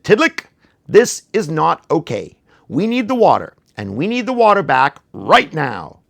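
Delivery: serious koala. Acted. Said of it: "very serious".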